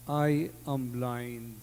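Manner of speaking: a hint of a begging blind child; pleading blind child. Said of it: "nga na".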